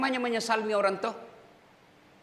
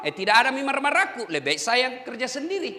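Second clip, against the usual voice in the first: laughing. Real, not acted. Joking about firing staff.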